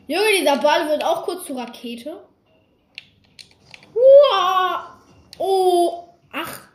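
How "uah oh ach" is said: loud burst of laughter; laughing. Real, not acted. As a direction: crack up loudly. Laughing at ball rocket.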